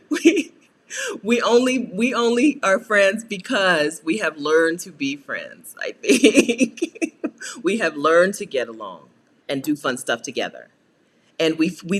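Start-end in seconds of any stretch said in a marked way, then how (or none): 0.1-9.1 laughing through it. Real, not acted. Laughing while explaining mom.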